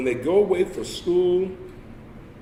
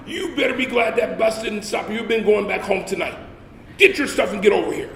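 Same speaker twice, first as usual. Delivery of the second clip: sergeant yelling; 5 semitones higher than usual. Retold or imitated.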